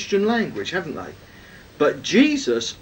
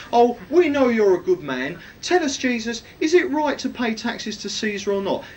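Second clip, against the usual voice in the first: higher, sugary flattering voice; fawning flattery; 5 semitones higher than usual. Retold or imitated. Preacher mimics Pharisees flattering Jesus, fawning and higher. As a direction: lay the flattery on thick, mockingly. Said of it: "a little bit of bootlicking".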